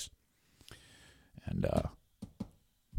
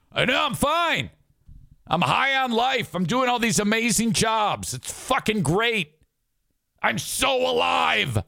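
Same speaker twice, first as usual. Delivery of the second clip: giddy excitement; 6 semitones higher than usual. Retold or imitated. Hyped reply to tired friend.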